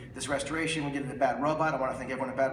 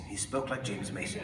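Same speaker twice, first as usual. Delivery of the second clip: put-on lower, softer, refined old-school stage voice; James Mason voice; 5 semitones lower, 5 dB quieter than usual. Showing the audience how Angus spoke, in a low James Mason voice. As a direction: sink fully into a low James Mason murmur. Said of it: "He would sound like this".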